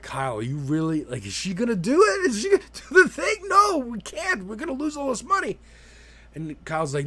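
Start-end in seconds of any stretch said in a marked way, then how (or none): 0.0-5.6 high, frantic mock panic, mostly fast; panicked pleading. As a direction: play the boys freaking out about losing their bet money. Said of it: "they're like".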